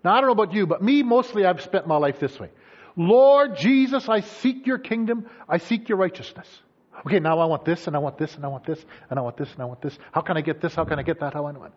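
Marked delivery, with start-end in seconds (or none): 3.0-6.6 drawn-out opening, then settling down; imploring the Lord, slowly at first; devout prayer. Acted. Praying to the Lord to seek his kingdom, devoutly. 7.0-11.7 low, repetitive run of demands; mock wish list. Believer listing wants to the Lord, mock self-absorbed.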